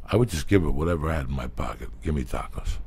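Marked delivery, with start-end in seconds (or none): none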